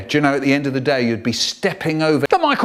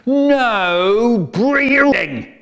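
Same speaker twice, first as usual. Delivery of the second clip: drawn-out, slow, higher and louder command; strict teacher bark; 10 semitones higher, 9 dB louder, much slower than usual. Retold or imitated. Strict teacher ordering the class to stop breathing. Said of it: "She used to stand out the front going".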